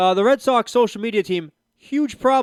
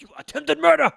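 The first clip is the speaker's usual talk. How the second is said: higher, louder mocking cop voice; mock Mountie; 9 semitones higher, 4 dB louder than usual. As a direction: accuse him like a pompous Mountie. Mock Mountie accusing the player.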